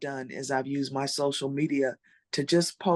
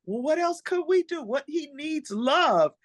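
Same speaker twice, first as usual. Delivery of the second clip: friend's matter-of-fact voice; 12 semitones higher than usual. Retold or imitated. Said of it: "And she's like".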